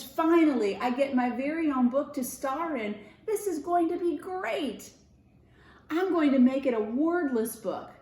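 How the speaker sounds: high, bright eager mouse; a little mouse thrilled to star; lightly voiced eager mouse; excited mouse. Rupert voiced in story.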